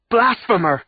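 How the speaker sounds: loud, high accusing cry. A narrator's reading. Woman in the courtroom denouncing the prisoners, loud cry. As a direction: hurl the word at them. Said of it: "a woman cried out".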